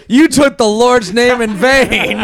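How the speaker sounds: laughing. Retold or imitated. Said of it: "everyone was like".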